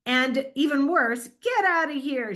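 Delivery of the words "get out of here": higher-pitched, lightly angry sample line; a touch of anger, put on as an example; mock angry yell. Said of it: "she yelled angrily".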